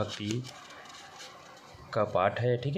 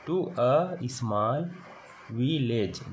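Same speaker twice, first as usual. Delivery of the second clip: to a small read word by word, very slow; slow read-aloud; much slower than usual. Shown as a demonstration. Teacher reading the textbook sentence to class, very slow. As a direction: stretch each word for beginners. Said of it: "teacher reads English line aloud".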